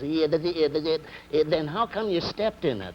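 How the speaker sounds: high stammer breaking into the punchline; stuck on small words, then get it out; comic stutterer's puzzled comeback; stuttering. Acted. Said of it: "Stuttering guy says".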